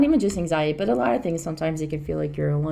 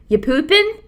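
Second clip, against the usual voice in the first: put-on little boy; 11 semitones higher, 9 dB louder, slower than usual. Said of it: "and he goes".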